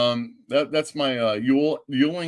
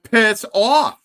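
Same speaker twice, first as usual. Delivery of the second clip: sharper and louder, pitched up; louder repeated brush-off; 10 semitones higher, 7 dB louder than usual. Retold or imitated. Repeating it to the stunned woman, louder brush-off. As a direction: push it harder the second time.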